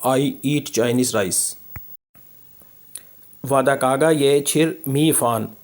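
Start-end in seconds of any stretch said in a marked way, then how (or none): 0.1-1.6 slow model reading. Shown as a demonstration. Teacher models English very slowly.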